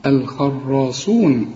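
الخراصون with a thick emphatic sad, not a sin; slow الخراصون, make the sad heavy. Shown as a demonstration. Teacher warns students not to say sin. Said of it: "اوعى تطلعها سين".

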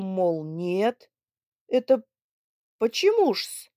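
put-on loud, gruff old man; indignant demand. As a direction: demand an answer from the suitor. Father demanding explanation. (возмущённо требуя ответа)

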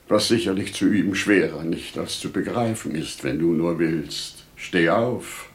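measured, tender urging; gentle voice of reason. Acted. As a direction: reason gently coaxing a mourner. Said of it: "Sie sprach mit sanfter Stimme".

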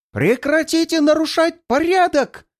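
high, loud battle yell. A narrator's reading. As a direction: bellow the order while swinging. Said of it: "вопит она".

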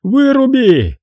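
high, frenzied roar; madman's roar. A narrator's reading. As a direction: bellow it like a man losing his mind. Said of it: "словно безумец ревел".

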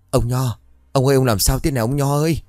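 a wife shaking her husband awake, worried; worried calling. Acted. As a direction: call out to wake your husband.

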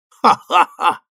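hearty ha-ha-ha, high; a big showy laugh; mock laugh. Harry laughs at the actress's joke, showy high laugh. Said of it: "засмеялся Гарри Голдвейзер".

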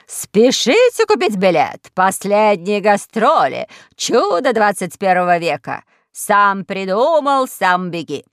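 loud, slow carnival barker call; low voice through a horn. Acted. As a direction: boom it out like a fairground ad. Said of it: "заговорила в трубу низким голосом".

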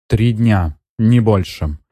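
firm, clipped-off ultimatum; curt. Acted. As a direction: cut her off flatly. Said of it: "отрезала женщина". (отрезала, твёрдо)

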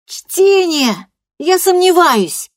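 very high, loud, slow shout; furious yell. Acted. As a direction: scream your doubt at her. Girl yells at grandmother.

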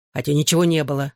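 fast, rushed tacked-on correction; hurried addition. Acted. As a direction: rush it out before she notices. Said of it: "торопливо добавил я".

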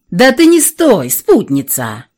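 hurrying dragon heads in chorus; many-headed hydra. Acted. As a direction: urge her on, all three heads at once. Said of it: "заторопили её хором все три головы".

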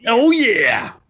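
excited. Real, not acted. Echoing the excited cheer.

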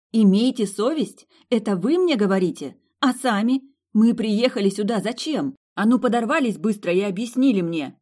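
mild mock yell at the girls; hammed-up furious roar. A narrator's reading. Milly yelling at her friends, a mild mock yell. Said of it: "она заорала во всю мощь своих лёгких".

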